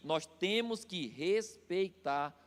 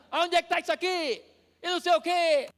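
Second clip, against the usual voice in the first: higher, louder flustered voice; anxious retold; 9 semitones higher, 6 dB louder than usual. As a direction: sound harried and impatient. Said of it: "falou agoniado". (rapaz agoniado procurando a mercadoria, voz alta e aflita)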